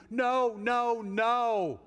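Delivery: loud, insistent denial; emphatic no. Real, not acted. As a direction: shut the idea down hard. Preacher rejecting a false conclusion.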